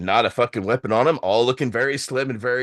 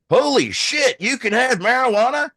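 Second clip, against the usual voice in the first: high, incredulous, a bit louder; amazed; 11 semitones higher, 3 dB louder than usual. Retold or imitated. American border agent stunned by legal papers, high disbelief. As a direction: blurt it out, jaw dropped in disbelief.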